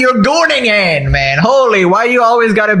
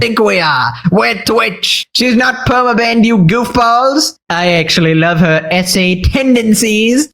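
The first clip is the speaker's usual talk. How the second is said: lightly voiced nasal-free Pee-wee impression, slowed in places; a hint of Pee-wee Herman as the Twitch boss. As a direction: play a boss in a goofy Pee-wee style. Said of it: "Why you gotta use Pee-wee Herman".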